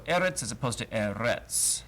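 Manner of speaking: eretz first stressed on the end, then on the first syllable; eretz, wrong stress then right; stress contrast. Shown as a demonstration.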